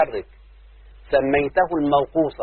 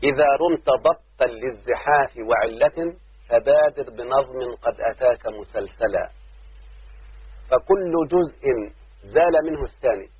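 poem recitation. Acted. (إلقاء شعري متأنٍّ)

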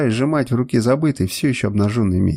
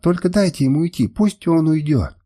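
sobbing plea; 5 semitones higher than usual. Acted. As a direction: beg them to let him go. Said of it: "рыдала она".

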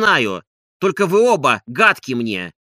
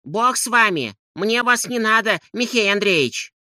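higher woman's voice; lightly voiced hostess; Agafya Matveevna; 7 semitones higher than usual. A narrator's reading. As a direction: voice the fed-up widow. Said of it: "сказала Агафья Матвеевна".

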